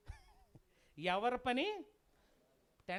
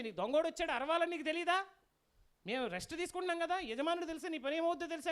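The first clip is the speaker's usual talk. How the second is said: higher, raised scolding as the donkey; mock-indignant scolding, pitched up; acted yelling; 4 semitones higher than usual. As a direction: nag the dog in a raised, urgent voice. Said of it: "అది అరుస్తుంది".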